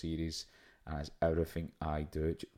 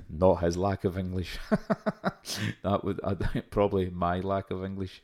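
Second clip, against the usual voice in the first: laughing; 7 dB louder than usual. Real, not acted. Laughing at own joke.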